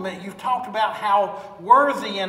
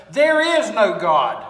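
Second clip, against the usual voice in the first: loud, slow scoffing yell; yelling back; 7 dB louder, slower than usual. Acted. Atheist yelling at the lady, loud scoffing yell. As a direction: shout it across at the neighbor. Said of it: "would always yell back at her".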